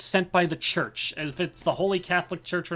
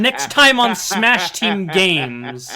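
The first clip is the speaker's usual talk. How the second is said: slow, loud TV announcer outro; 4 semitones higher, 8 dB louder, much slower than usual. Pretend. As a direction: stretch it out like a show's closing line. Mock episode outro.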